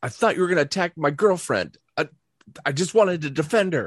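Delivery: heated, defensive, angry outburst, high and loud. Retelling a confrontation, voicing the man as he gets really angry. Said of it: "he gets really angry".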